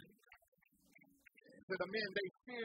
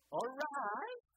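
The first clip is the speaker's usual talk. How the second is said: preaching; 5 semitones higher, slower than usual. Acted. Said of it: "Don't it sound the same?".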